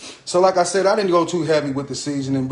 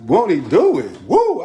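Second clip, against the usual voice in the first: hype shout; 4 dB louder than usual. Real, not acted.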